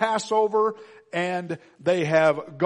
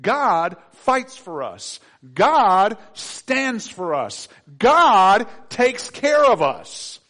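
each word slow and weighty, building louder; slow it down and let it build; slow emphatic refrain; 4 dB louder, much slower than usual. Real, not acted. Preacher assuring the congregation, slow and rising.

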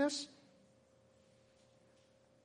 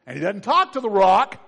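normal talking voice

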